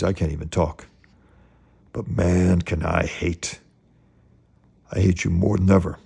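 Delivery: dramatic reading of a bitter vow; comic-book revenge speech; vengeful monologue. Acted. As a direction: read it as a measured threat, punching key words.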